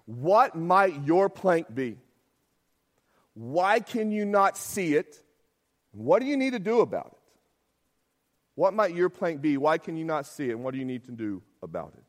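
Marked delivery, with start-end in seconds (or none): 0.0-7.3 slow reflective questions. Shown as a demonstration. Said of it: "mid-sermon application".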